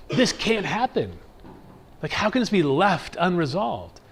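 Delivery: a soul crying out against what's unfair; indignant disbelief. Retold or imitated. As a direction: refuse to accept the injustice. Outraged at injustice.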